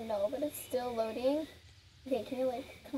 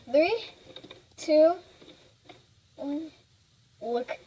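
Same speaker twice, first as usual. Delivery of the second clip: excited countdown; 3 semitones higher, 6 dB louder, slower than usual. Real, not acted. Countdown before looking.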